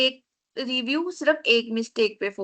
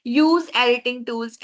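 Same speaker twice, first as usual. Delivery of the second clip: slow, deliberate reading; reading slide point; 4 dB louder, much slower than usual. Shown as a demonstration. Teacher reading a proofreading tip off the slide, slow. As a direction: read each word of the point out slowly.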